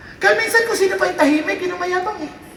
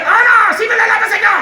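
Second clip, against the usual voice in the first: Goliath taunting; 3 semitones higher, 4 dB louder, faster than usual. Acted. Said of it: "Inaalipusta ni Goliath".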